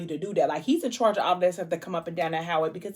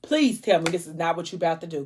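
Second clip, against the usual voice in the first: breathless dread. Retold or imitated. Reader dreading what the character will do. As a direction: gasp it out as if holding your breath. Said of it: "I was holding my breath like".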